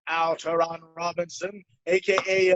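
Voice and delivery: put-on slow, grand old-time radio introduction; 1930s radio announcer. Shown as a demonstration. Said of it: "like a fucking nineteen thirties radio announcer".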